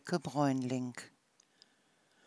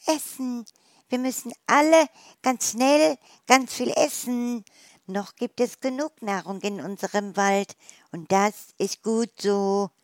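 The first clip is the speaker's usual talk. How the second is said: much higher, louder excited mouse; excited squeaking mouse; 6 semitones higher, 5 dB louder than usual. Acted. The wood mouse urges everyone to eat, high and excited. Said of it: "die Waldmaus fiebt aufgeregt".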